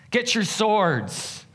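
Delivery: high, drawn-out shouted command; battle cry. A narrator's reading. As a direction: bellow it slowly like a commander rousing his men. Mock-calm setup, David's battle cry.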